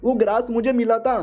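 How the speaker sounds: high-pitched mock outrage, playing to onlookers; hammed-up victimhood. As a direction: put on a wronged act for the crowd. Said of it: "तो नाटक करने लगता है". (ऊँचे सुर में पीड़ित होने का नाटक)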